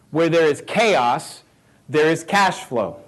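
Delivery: slow again, steady and firm; slow repeat. Shown as a demonstration. Repeating the motto for note-takers, slow and firm. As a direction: hammer it home a second time.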